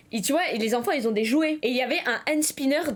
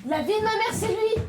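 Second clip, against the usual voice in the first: mock panic; 11 semitones higher than usual.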